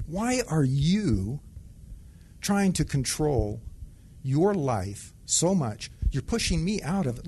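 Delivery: slow, deliberate questioning voice of God; lightly voiced God gently asking why he holds on. God asking the sergeant why he controls his life, slow and lightly voiced. God speaks to him in the story.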